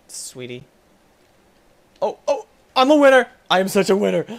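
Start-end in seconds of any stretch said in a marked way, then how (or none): 2.0-4.2 loud cheering boast; triumphant. Real, not acted. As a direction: crow about winning. Celebrating win.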